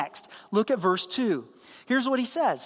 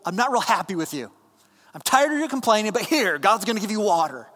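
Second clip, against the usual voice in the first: fired up; 3 dB louder than usual. Retold or imitated. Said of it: "he's fired up over this grumbling".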